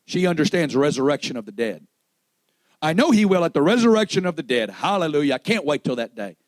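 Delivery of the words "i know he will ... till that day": higher, louder voice of insistent faith; fervent declaration. Acted. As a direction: declare it with raised conviction. Acting out Martha's confident reply.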